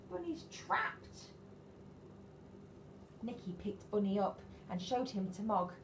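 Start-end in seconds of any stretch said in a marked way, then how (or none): 0.1-1.3 alarmed gasp. Acted. Shock at trapped Bunny.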